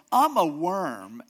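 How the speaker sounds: slow, loud, whining "I'm a worm"; loud self-pity. Retold or imitated. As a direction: moan it out slowly, overplaying the misery. Mock self-pity, acted louder.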